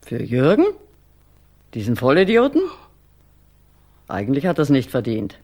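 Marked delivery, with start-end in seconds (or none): 0.0-2.6 higher and louder, spitting out the insult; sneering outburst at the idiot son; contemptuous outburst. Acted. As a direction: scorn for the useless son, burst out. Mother scorns kidnapped son.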